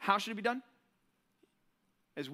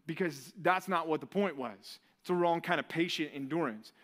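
stern master; 6 semitones lower than usual. Retold or imitated. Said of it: "And he says".

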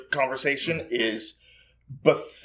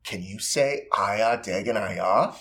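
put-on coaxing a toddler; 5 semitones lower, 4 dB quieter, slower than usual. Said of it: "I look at her and I go".

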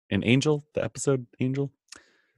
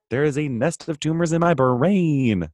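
quoting Ford; 5 semitones higher than usual. Retold or imitated. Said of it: "he's like".

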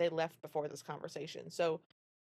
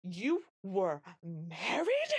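slow, stern disbelief; a hint of a severe stepmother; drawn-out, cold question; much slower than usual. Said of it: "she's a very severe-looking woman".

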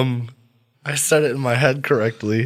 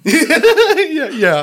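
laughing; 7 dB louder than usual. Real, not acted. Laughing at the definition.

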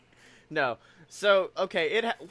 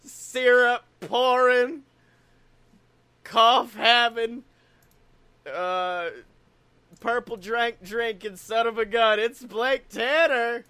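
ringmaster; 2 semitones higher than usual. Pretend. Continues the circus introduction.

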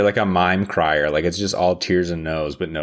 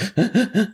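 high, pulsing mock sobs; imitated sobs. Shown as a demonstration. Asking what kind of crier she is, imitated sobs. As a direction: fake a run of high sobs. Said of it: "is it, like, a lot of sobs?".

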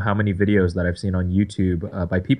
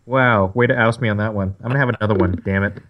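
chewing while talking. Real, not acted. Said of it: "Lamb is eating a potato chip".

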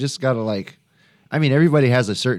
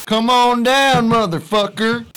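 game show host; 11 semitones higher, 5 dB louder, much slower than usual. Pretend. Prank-call host bit.

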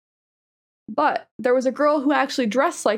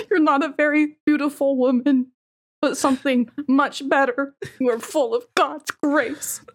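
Jordan Peterson. Acted. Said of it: "if we added creaming with Jordan Peterson".

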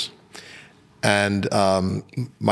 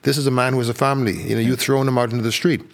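higher, imitated moral appeal; retold appeal; 4 semitones higher, faster than usual. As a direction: act out his plea for compassion. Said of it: "That's the appeal he took to him".

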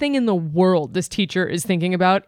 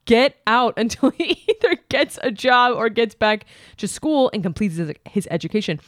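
letter reading. Acted. Reads Dear Abby letter aloud.

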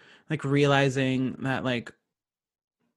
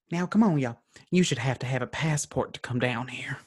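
put-on Southern accent; 3 dB quieter than usual. Quoting the movie's best line in a Southern accent. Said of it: "wait, let me get my accent".

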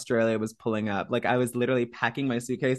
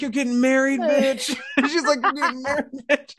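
much higher sassy friend voice; mimicking Kiki; 13 semitones higher than usual. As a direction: squeal it like a teasing bestie.

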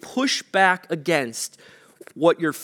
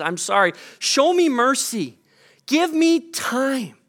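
pleading servant; 5 semitones higher than usual. Retold or imitated. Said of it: "He says".

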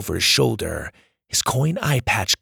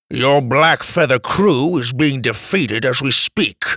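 growled; 3 dB louder than usual. Acted. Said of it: "Grandpa growled".

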